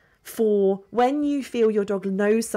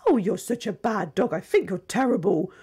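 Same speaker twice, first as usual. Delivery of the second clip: saying "bad dog" in a sing-song praise tone; sweet voice, harsh words. Shown as a demonstration. Trainer showing mismatched tone, cooing "bad dog". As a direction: coo the scolding as if it were praise. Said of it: "you can't say".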